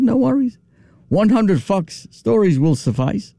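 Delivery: lightly voiced Queens deer, relaxed. Shown as a demonstration. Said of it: "He just said".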